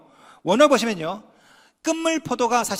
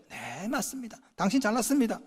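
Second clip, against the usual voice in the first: soft agreement; 8 dB quieter than usual. Shown as a demonstration. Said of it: "상대방이 분노할 때 인정해 주세요".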